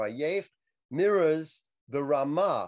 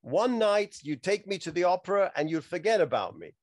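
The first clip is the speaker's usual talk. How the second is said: protesting Loretta; 4 semitones higher than usual. Retold or imitated. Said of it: "And she says".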